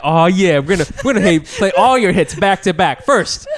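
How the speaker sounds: lightly voiced hype DJ; DJ patter. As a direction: announce the hits like a radio DJ. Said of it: "you're, like, a D J".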